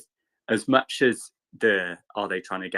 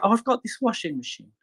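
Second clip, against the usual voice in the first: high, airy posh English voice; posh Molly impression; 13 semitones higher than usual. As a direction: drop it lightly like a posh girl mentioning a trifle. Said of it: "then she's like".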